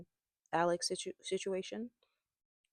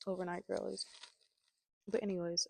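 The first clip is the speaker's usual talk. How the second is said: talking while crunching chips. Real, not acted. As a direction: mouth full of crunchy snack. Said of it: "so sorry about the crunch".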